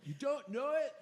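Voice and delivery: incredulous heckler, pitch shot way up; imitated yelling. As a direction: mimic an outraged yell at contained volume. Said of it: "he just kept yelling".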